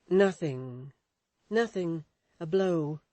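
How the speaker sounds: evasive. Acted. Edith avoiding question.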